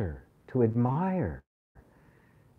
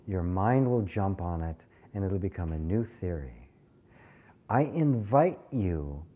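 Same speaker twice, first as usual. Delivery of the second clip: ordinary talk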